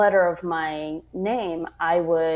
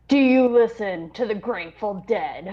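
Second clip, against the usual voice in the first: laughing. Retold or imitated. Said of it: "officer quote".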